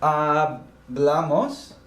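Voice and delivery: Hablamos drawn out slowly, ah-BLAH-mos; slow Spanish. Shown as a demonstration. Teacher modelling Hablamos slowly for the class. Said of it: "we spoke".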